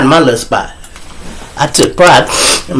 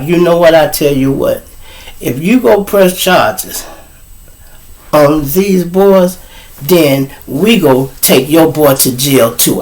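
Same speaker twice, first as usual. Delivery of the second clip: measured warning. Acted. Police officer warns the mother.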